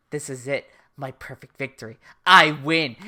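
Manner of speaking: mock gloat. Light gloating in anime recap.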